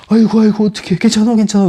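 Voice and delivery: high, loud alarmed cry of a frightened mom; scared parent fussing over a toddler who fell, high and loud; panicked mother. Retold or imitated. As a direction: rush in fussing over the fallen child. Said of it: "겁이 나가지고 그냥 막 달려가서".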